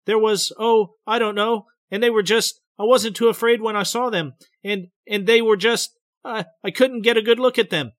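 frightened telling. A narrator's reading. Betty describing the men in the road, frightened. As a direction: push through the memory, scared.

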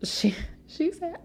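hushed whisper. Real, not acted. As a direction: lean in and whisper it. Gossipy aside.

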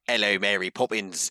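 mock Cockney, dropped aitch; terrible film Cockney; Dick Van Dyke. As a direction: put on a dodgy stage Cockney accent. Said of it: "really terrible Dick Van Dyke".

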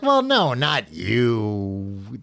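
flustered woman brushing it off; mock lady's voice. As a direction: Beryl backpedalling to Watson, lightly voiced. Lady voiced in retold story.

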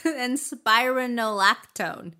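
spironolactone slow, RON swallowed to "rin"; misplaced stress. Shown as a demonstration. Reader attempting it for co-host, spironolactone stressed off the RON. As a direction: say spironolactone as spy-rin-oh-LAC-tone. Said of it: "You put the emphasis on the wrong syllable".

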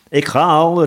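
high, loud call; eager servant's shouted reply. A narrator's reading. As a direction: shout it while hurrying off. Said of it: "riep de bode".

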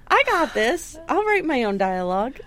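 lightly voiced smug screenwriter bragging; cocky writer. Mock Linwood Boomer writer confidence.

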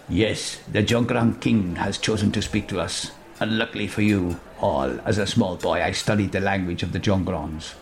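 a hint of a learned scholar explaining; lightly voiced Cartano. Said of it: "says Cartano".

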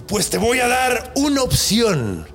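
slow, menacing genie, lightly voiced; drawn-out threat from a grand genie; badass genie voice. Genie offering the man a choice of death, slow and menacing. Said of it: "tiene que tener una voz chingona el genio".

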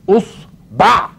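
"أصبع" split deliberately, us-baʕ; pronunciation variant. Shown as a demonstration. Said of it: "تقول إيه؟".

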